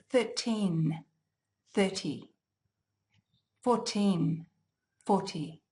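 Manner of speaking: thirteen, thirty, fourteen, forty with a crisp T sound and a distinct N; careful textbook pronunciation; very clear numbers. Shown as a demonstration. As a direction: say each T sharp and clear, slowly. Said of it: "If we pronounce the numbers very, very clearly".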